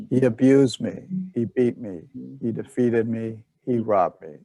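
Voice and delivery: measured, evenly phrased verse recitation; scripture reading. Acted. Leader reads Dhammapada verses with the group, measured recitation. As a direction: read sacred verses line by line.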